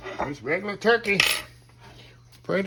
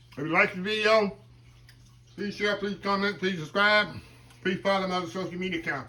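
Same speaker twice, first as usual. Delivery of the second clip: upbeat sign-off. Acted. Host wrapping up the cooking video for viewers, upbeat sign-off. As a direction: sell the channel, warm and upbeat.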